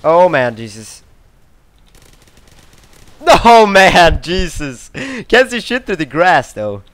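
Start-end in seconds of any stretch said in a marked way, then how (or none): none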